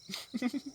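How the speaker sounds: very soft, high giggle; a small high laugh, barely let out. Acted. Madman laughs mid-memory. (बहुत धीमी, पतली हँसी)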